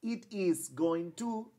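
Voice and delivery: slow, "it" stressed; slow long form. Shown as a demonstration. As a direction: model the full form slowly. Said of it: "Aquí yo digo".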